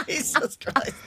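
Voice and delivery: breathless laughing through words; snorting laughs. Real, not acted. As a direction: laugh it out, gasping. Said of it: "There's the snort".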